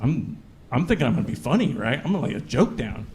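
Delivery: low, soft and hushed as if whispering in her ear. Retold or imitated. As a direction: drop the voice to a hush. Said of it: "and I whisper in her ear".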